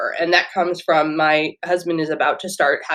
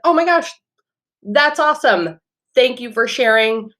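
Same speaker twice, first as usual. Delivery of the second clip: excited; 5 semitones higher than usual. Retold or imitated. Acting an enthusiastic reply.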